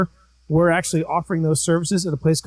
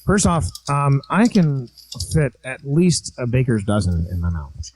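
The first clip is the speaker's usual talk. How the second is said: lightly voiced low creepy uncle; Crazy Uncle Charlie voice; 5 semitones lower than usual. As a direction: answer as a lecherous uncle.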